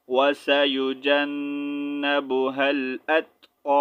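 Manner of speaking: very slow, level recitation with held vowels; measured Quran recitation. Shown as a demonstration. Teacher joining spelled letters for students, slow recitation. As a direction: recite slowly on one note, stretching long vowels.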